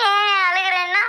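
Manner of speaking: tearful, indignant comeback; whimpering retort; crying. Acted. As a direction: answer back through tears.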